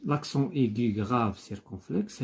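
reads the accent names slowly; slow dictation. Shown as a demonstration. Teacher listing accents to pupils, slow and deliberate. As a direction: spell out each accent name for the class. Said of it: "il y a trois sortes d'accent".

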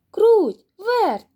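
rooster calling his friends, high and loud; loud, high-pitched summons. A narrator's reading. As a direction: sing out each name with a falling tone. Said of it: "покликав Півник".

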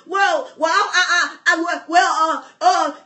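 hesitant, stuttering mock Elijah; stammering excuses. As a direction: hem and haw through excuses. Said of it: "But here's Elijah".

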